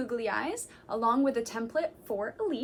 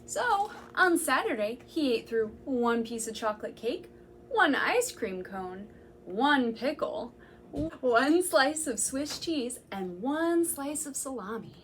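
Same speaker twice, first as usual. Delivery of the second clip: put-on reading to children. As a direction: savour each food for the little listeners. Reading picture book to children.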